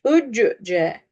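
"Öccü, c" with an extra vowel between the consonants; wrong shadda reading. Shown as a demonstration. Teacher shows the mistake, "Öccü, c" with bounced consonant. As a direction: bounce the first c of "Öccü, c" into its own syllable. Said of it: "Çok yanlış".

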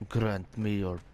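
slow, drawn-out invocation; hammed-up solemn plea; mock prayer. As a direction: intone it grandly, spacing out the words. Reads prayer aloud in mock solemnity.

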